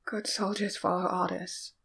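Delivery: slurred, panicky, fading; slurred and frantic. A narrator's reading. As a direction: mumble it in a fevered panic. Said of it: "words slurred, but no less frantic".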